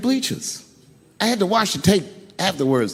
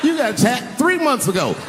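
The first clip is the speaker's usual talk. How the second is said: mock furious; 8 semitones higher than usual. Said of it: "thinking in my mind".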